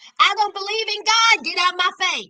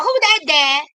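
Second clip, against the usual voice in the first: put-on much higher, fast, childlike voice; voicing the baby; 6 semitones higher, 5 dB louder, faster than usual. The baby in the car asking about its mother, high childlike voice. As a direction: play a confused little kid. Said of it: "that baby in the background".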